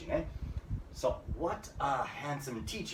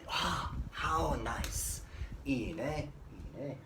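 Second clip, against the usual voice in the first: admiring exclamation; 3 dB quieter than usual. Shown as a demonstration. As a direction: sigh it out in admiration.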